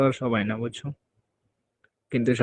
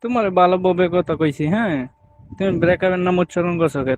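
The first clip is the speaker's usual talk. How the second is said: higher, louder angry complaint; angry scolding; 5 semitones higher, 4 dB louder than usual. Acted. Scolding partner for mentioning breakup, angry and loud. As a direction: snap at him for saying breakup. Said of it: "তাই তো রাগ উঠছে".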